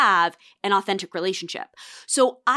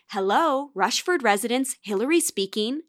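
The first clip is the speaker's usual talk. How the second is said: taught phone voice. Retold or imitated. Child answering the family phone for dad's work calls, polite phone voice. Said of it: "to have a phone voice growing up".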